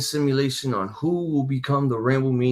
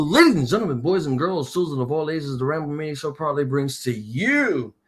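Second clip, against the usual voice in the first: booming wrestling announcer intro; ring announcer. Acted.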